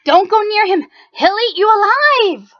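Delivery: high, loud warning shout; yelling warning. Acted. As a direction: cry out to stop them. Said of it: "People yelled".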